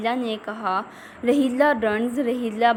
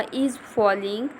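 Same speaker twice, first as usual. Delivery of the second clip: slow reading aloud; much slower than usual. Shown as a demonstration. Teacher reads text slowly.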